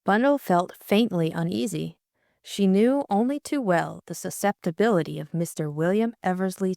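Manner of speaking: steady, measured audiobook reading; story narration. A narrator's reading. Reader narrating Bundle's unease about Bill, measured storytelling. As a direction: read it like a mystery novel, evenly paced. Reads novel narration aloud.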